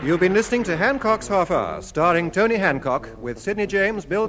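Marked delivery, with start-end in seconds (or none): none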